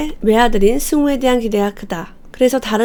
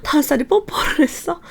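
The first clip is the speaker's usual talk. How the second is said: higher, exaggerated shocked question; shocked reaction; 6 semitones higher than usual. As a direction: overreact like a startled mom. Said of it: "이런 반응을 보이면". (깜짝 놀란 엄마 반응, 높게)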